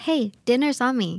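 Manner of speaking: slow, clear English model line; slow teaching read. Shown as a demonstration. Host to listeners, modeling the phrase slowly and clearly. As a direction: say it slowly so learners catch it. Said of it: "อาจจะพูดเป็นคำว่า".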